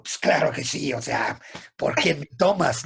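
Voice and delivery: a cocky, overconfident answer. Retold or imitated. Student brags to his master, mock cocky. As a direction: toss it off like it's obvious. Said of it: "Ese era el tono".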